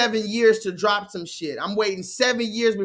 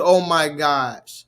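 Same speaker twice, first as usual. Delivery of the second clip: drawn-out gasp; 8 semitones lower, 4 dB louder, much slower than usual. Real, not acted. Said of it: "You've heard regular".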